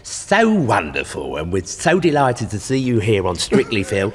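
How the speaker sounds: smarmy TV host voice; Bruce Forsyth impression. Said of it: "you're doing Bruce".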